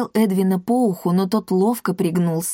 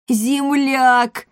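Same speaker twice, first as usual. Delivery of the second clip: higher, joyful exclamation; delighted; 5 semitones higher, 3 dB louder than usual. A narrator's reading. Pima finds someone from his town, delighted. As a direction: greet a fellow townsman with delight. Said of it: "просиял Пима".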